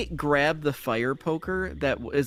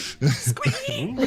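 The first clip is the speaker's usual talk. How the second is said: Hickory. Acted. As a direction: squeal like a tiny critter. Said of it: "Hickory's like".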